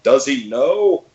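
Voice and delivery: slow, high mock whisper of a puzzled crowd; mock puzzled onlooker; wondering audience.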